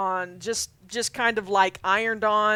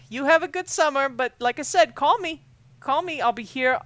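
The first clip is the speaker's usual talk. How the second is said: higher, louder motherly send-off; insistent mom; 5 semitones higher, 4 dB louder than usual. Acted. Mom saying goodbye to her camper, insistent. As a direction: press the reassurance on him, voice lifted. Mom's emphatic goodbye to son.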